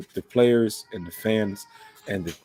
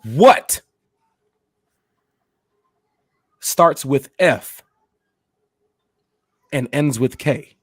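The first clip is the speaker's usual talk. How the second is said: slow, loud drawn-out riddle; girlfriend's teasing riddle, drawn out; 3 semitones higher, 5 dB louder, much slower than usual. Retold or imitated. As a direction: stretch the riddle out word by word. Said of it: "she says".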